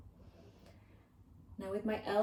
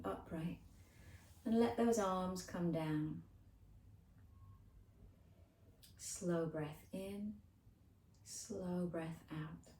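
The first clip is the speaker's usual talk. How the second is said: measured breathing cues, spaced by pauses; unhurried yoga teacher leading the breath; guided relaxation. Acted. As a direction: draw out the breath cues gently. Guides slow breaths between movements.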